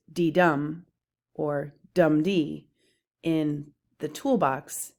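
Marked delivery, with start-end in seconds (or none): 0.1-0.9 D-dum with DUM hit harder; light D, strong DUM; unstressed then stressed. Shown as a demonstration. Teacher sounding out the foot D-dum, stress on DUM. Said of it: "I have them noted with". 1.9-2.7 slow dum-dee, DUM leading; strong DUM, lighter dee; stressed then unstressed. Shown as a demonstration. Teacher sounding out the reverse foot dum-dee, stress on DUM. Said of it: "I have them noted with".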